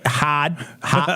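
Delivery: "hard" as "hahd", Boston style; Boston accent. Shown as a demonstration. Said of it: "the R is gone".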